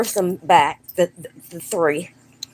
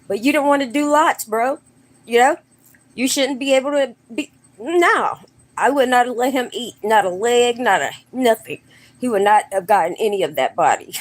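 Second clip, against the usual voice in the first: fast, high, worked-up protest; excited rant; 4 semitones higher, faster than usual. Real, not acted. Telling a friend how he'd never allow it, fast and heated. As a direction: rattle it off, fired up and indignant.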